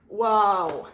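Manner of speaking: loud wow. Real, not acted. Reacts to a drawn card.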